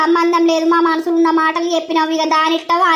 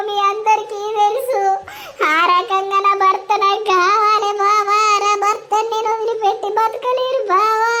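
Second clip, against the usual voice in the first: tearful plea. Acted. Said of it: "ఏడవకురా Sirisha".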